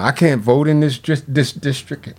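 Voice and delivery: stumbling over a word, then restarting; real tongue-tied stumble mid-sentence. Real, not acted. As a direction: trip on the word and try it over. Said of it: "I'm getting a little tongue-tied".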